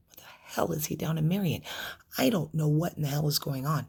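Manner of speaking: reliving it with a touch of anger; baffled, indignant outburst, kept in check; mild anger. Retold or imitated. Mother told her son is down in Marion, mildly angry. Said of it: "a little bit of anger".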